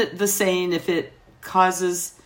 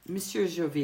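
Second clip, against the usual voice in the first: put-on softer French-accented appeal; 9 dB quieter than usual. Waitress calming a rowdy customer, soft French accent. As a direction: get his attention gently in a French accent. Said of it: "my French was impeccable".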